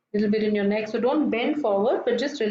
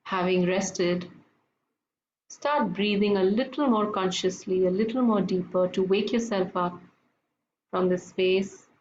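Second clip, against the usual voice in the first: guided meditation. Acted.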